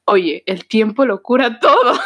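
stock advice breaking into a laugh; mock consoling. Someone with nothing to say consoling a friend, mock consoling. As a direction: imitate a lame comforter, cracking up at the end.

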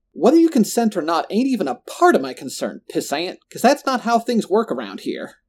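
menacing villain. A narrator's reading. Roland putting the friends in their place, menacing.

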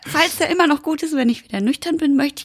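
tipsy, slurring a little. Real, not acted. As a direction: talk like you've had a few. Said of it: "ich bin betrunken".

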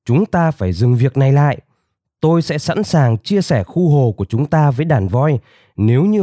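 lightly voiced announcement to a meeting; declaring. A narrator's reading. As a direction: address the gathered crowd firmly. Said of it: "cô tuyên bố".

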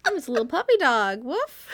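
cutesy puppy voice, fast; cartoon dog. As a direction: play a silly little puppy. Pretending to be a puppy.

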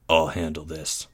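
low, quiet grunt. A narrator's reading. Boy leader taking charge at the hatch, grunted. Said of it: "grunted Greg".

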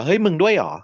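mock surprise, voice jumping up; surprised. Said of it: "กวีก็เลยแปลกใจว่า".

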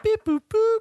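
robot voice. Pretend. Robot noises while lifting home.

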